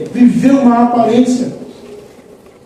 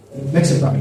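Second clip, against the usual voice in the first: gentle whisper; 4 semitones lower, 5 dB quieter, faster than usual. Retold or imitated. God gently asks in the room.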